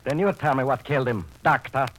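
challenging. Acted. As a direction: demand the answer. Gangster challenges the doctor.

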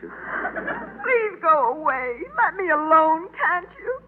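tearful plea; crying. Acted. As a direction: plead through tears. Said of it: "she's crying".

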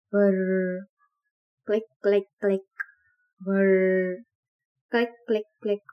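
mechanical whirr and clicks, spoken; whirr click imitation. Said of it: "Please forgive me if my imitation is not correct".

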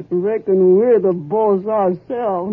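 half-laughing realization; amused. Acted. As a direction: grin through the line as if it's a great joke. Wife laughing at her own idea.

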